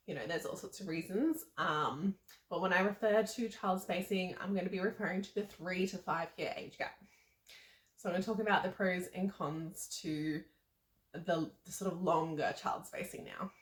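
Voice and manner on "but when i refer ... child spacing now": slightly winded while talking; out of breath. Real, not acted. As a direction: speak short of breath. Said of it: "I feel like I'm already out of breath".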